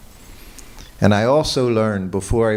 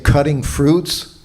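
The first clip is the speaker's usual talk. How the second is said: incredulous scolding; 5 semitones higher, 4 dB louder, slower than usual. Retold or imitated. Guru scolding servant's excuse.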